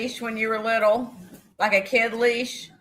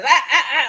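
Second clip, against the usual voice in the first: higher, louder "ah, ah, ah"; mimicked warning noise; 4 semitones higher, 5 dB louder, faster than usual. Old man stopping her at the door, mimicked warning. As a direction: imitate someone stopping a person with short raised noises. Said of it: "like that".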